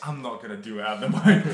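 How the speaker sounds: unvoiced playful whisper. Host backing out of ASMR, whispered. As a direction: drop into a whisper.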